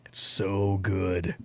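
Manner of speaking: slow breathy whisper. Real, not acted. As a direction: savor it in a hush. Savoring the moonshine, whispered.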